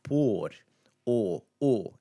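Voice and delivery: "pôr" as "pohr", then "o, o"; closed O. Shown as a demonstration. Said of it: "That same o sound".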